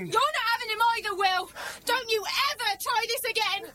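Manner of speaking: angry warning. Acted. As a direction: warn him off for good. Mother warning off her attacker.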